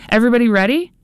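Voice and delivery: loud, high call across the rink; booming coach call. A narrator's reading. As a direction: boom it out to the whole rink like a coach. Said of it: "The powerful voice of Coach Ann boomed".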